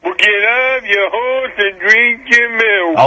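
hint of a movie cowboy impression; John Wayne. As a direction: have a half-hearted go at a Western star. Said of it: "gonna do John Wayne".

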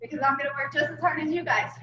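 panting while jogging; out of breath. Real, not acted. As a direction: talk mid-workout, short of breath. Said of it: "If I sound out of breath, it's because I am".

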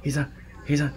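high mock dad voice with halting repeats; hammed-up dad, stumbling before the insult; retelling the dad's punchline insult; imitating the dad. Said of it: "his dad just goes".

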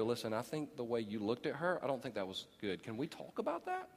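woman calmly confronting her partner, quietly; soft gentle confrontation. Retold or imitated. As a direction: raise it gently. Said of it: "you have a right to go".

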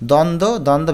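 দ্বন্দ্ব as "don-do", no b; silent b-fola. Shown as a demonstration. Teacher showing silent b-fola, দ্বন্দ্ব as "don-do". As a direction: say দ্বন্দ্ব with both b's silent. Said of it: "ব ফলার উচ্চারণ হবে না".

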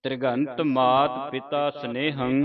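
measured recitation of the line; slow scripture reading. Shown as a demonstration. Teacher reciting the line for the student, slow and measured. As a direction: read it slowly and with reverence. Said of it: "teacher models full line".

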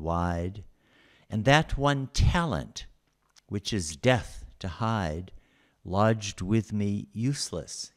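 measured, slow sonnet recital; poem reading. Acted. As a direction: read it like a lecturer savouring verse. Reads Milton sonnet aloud.

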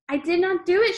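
high, loud scream; girl screaming at the headmistress. A narrator's reading. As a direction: scream the denial with all she has. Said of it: "she screamed".

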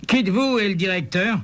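a lightly voiced brisk policeman. A narrator's reading.

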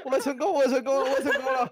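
high, loud cheer broken by laughter; laughing triumph. Real, not acted. Player joining friends' success, laughing triumph. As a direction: celebrate while cracking up.

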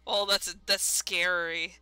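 shaken. Real, not acted. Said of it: "That's terrifying".

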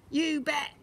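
mild cheery yell; yelling boy. A narrator's reading. Boy answers his dad eagerly, yelled. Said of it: "yelled Lester".

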